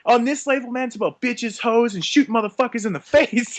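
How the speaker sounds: mock tough rap boss bragging; gangster voice. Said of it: "He's like".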